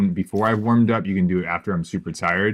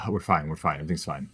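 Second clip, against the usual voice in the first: softer, lower everything's fine; resigned mutter; 3 semitones lower, 5 dB quieter, much faster than usual. Real, not acted. Streamer losing again mutters to himself, soft and resigned. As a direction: say it to yourself after a sigh. After a sigh, resigned repeat.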